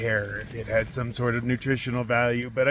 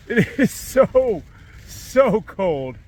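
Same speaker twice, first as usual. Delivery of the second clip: freezing; 9 semitones higher, 6 dB louder, much slower than usual. Real, not acted. Freezing in tent during storm.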